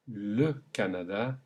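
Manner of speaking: le Canada with open French a sounds. Shown as a demonstration. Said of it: "repeat one last time".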